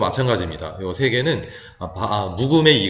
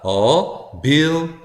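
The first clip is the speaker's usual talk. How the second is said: "어, 빌" with 빌 jumping much higher; weak schwa 어, then a high, strong 빌; weak then stressed; 5 semitones higher, much slower than usual. Shown as a demonstration. Teacher sounding out ability, stress on the second syllable. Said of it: "야금으로 갑니다".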